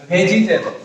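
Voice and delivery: ভেজিটেবল with the i sounded, ve-ji-te-bol; familiar full pronunciation. Shown as a demonstration. Teacher showing the word everyone knows, ভেজিটেবল as ve-ji-te-bol. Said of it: "সবাই জানি যে শব্দটা হবে ভেজিটেবল".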